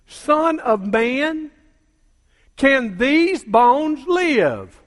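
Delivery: very slow, drawn out question; slow solemn voice of God. Retold or imitated. God asking the prophet in the valley, very slow and solemn. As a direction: stretch each word like a divine call. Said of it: "Verse three".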